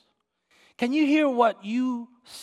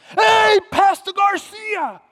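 loud, high, drawn-out holler; startling shout from far across the room; screamed greeting; 10 semitones higher, 8 dB louder, slower than usual. Retold or imitated. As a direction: imitate someone hollering a name across a restaurant. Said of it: "somebody to scream in the restaurant my name".

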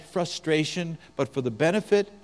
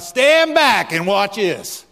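louder, slow, swaggering brag; cocky redneck boast; 4 semitones higher, 7 dB louder, slower than usual. Retold or imitated. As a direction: show off to the crowd. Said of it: "kinda like a bunch of rednecks".

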